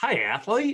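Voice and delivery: weird, vaguely Southern accent, very high and loud. Speaker repeats a co-host's greeting to mimic it, weird half-Southern accent. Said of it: "It's like kind of Southern, kind of not".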